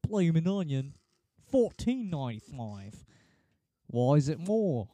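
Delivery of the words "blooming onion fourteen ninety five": Outback ad voice. Retold or imitated. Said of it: "the guy in the Outback commercial".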